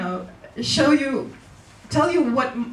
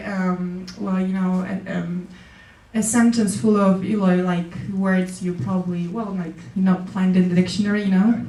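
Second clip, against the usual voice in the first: rambling with fillers; 3 semitones lower than usual. Shown as a demonstration. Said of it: "filler words is like".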